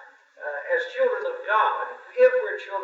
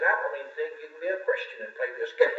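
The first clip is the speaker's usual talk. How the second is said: laughing quote; faster than usual. Retold or imitated.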